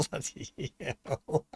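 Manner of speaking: slow, soft drawn-out Sydney Housewives voice; Sydney Housewives accent. Acted. Picking songs in a soft, slow Sydney Housewives accent. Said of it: "your Sydney Housewives accent".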